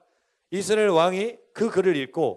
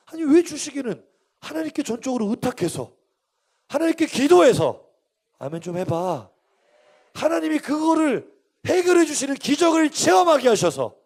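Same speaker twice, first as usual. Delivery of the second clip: high, loud exhortation; rousing preaching; 8 semitones higher, 7 dB louder than usual. Real, not acted. Preacher urging the congregation to entrust God, rousing. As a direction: build toward the miracle with conviction.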